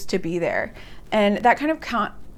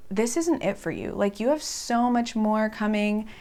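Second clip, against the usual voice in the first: gentle reassurance. Retold or imitated. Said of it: "And she was like".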